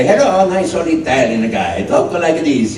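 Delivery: lightly voiced old Italian gent; a hint of a nice old Italian guy; old Italian man. Actor recalling his stage role, lightly voiced old Italian. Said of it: "I was like the oldest man".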